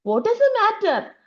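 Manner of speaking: high, slow sleepy murmur; a drowsy voice from nowhere asking the girl. Acted. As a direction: ask it slowly, drowsy and high. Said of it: "said a sleepy murmuring voice".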